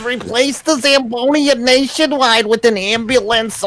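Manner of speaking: put-on high, lamenting Jewish accent. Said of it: "What's a Jewish accent?".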